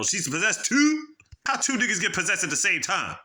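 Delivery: stunned that two are possessed; shocked disbelief. Retold or imitated. Watching Bridget chew glass, disbelieving.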